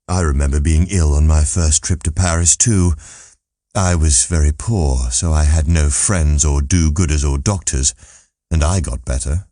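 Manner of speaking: lightly voiced world-weary old man; dry old Martin. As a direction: Martin recalling his poor illness, understated.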